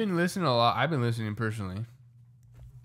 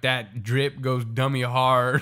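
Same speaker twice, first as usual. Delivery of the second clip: slow, louder, lightly voiced old grandma; grandparent saying slang; 6 dB louder, much slower than usual. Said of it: "the grandparents ... they're like".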